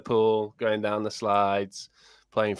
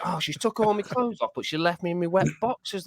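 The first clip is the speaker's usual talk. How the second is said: retold grumble at the wife, pitched higher; mock anger at wife; 8 semitones higher than usual. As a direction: act out your old annoyance, higher voice. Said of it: "I got dead angry at the wife".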